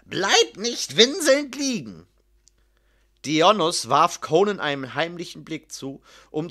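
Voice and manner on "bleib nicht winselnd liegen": slow, raised-pitch command; thundering order. A narrator's reading. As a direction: draw out the scornful order. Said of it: "donnerte Posthumo". (langsam gedonnerter Befehl)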